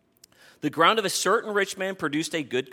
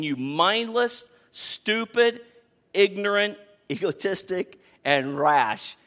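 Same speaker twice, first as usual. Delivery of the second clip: "You mindless", drawn out, then "stupid, ignorant, egotistic" stressed and "rash" falling; mock rebuke; 4 semitones higher, slower than usual. Pastor voicing God calling the rich man a fool, stressed rebuke. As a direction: spit the list out with a laugh breaking in. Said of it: "he's saying".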